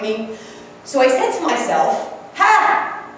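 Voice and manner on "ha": a sharp, high "Ha!" bursting out; short high exclamation of "Ha!"; sudden "Ha!". Retold or imitated. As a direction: blurt out "Ha!" like the voice inside. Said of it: "That's what I said".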